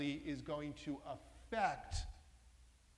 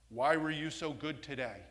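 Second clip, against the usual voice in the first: scolding tone; 6 dB louder than usual. Shown as a demonstration. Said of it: "So it's all about the emotion".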